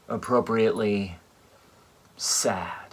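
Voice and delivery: hushed whisper, no voice. Shown as a demonstration. Whispering sad at the funeral. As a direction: breathe the word sad out as a whisper.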